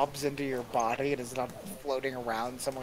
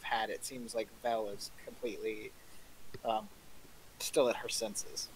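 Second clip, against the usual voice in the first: whisper; 6 semitones lower, 9 dB quieter than usual. Real, not acted. Game master quietly finishes ruling.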